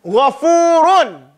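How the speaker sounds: slow Gha, ghafurun with throaty gh; recited. Shown as a demonstration. Teacher showing the right gha sound. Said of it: "that's how you pronounce it".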